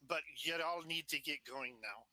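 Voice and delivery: attempted Scottish accent. Player urging townsfolk to leave, in an attempted Scottish accent. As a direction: try a light Scottish accent. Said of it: "That's a Scottish accent".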